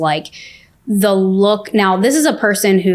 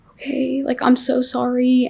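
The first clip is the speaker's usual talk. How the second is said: small, higher-pitched voice; meek apology; 5 semitones higher than usual. Retold or imitated. Told to move out by Sunday, meek apology.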